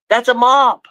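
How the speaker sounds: high, incredulous telling-off; high exasperated dog talk. Real, not acted. Owner telling Blaze the thing he barks at is a mop, high and exasperated. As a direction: raise the pitch and tell the dog it's just a mop.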